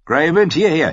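high, loud yell calling the wolf; desperate shout. A narrator's reading. Rob shouting his wolf back from the riders. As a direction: call him back with all your breath. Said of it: "schrie Rob".

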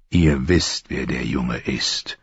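patient repetition, sinking low and soft; quietly persistent, voice falling away. A narrator's reading. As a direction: repeat it patiently, slowing and dropping at the end. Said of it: "wiederholte Ned geduldig".

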